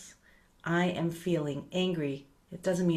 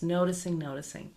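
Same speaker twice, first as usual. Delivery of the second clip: gentle noting. Shown as a demonstration. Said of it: "It's just to notice this".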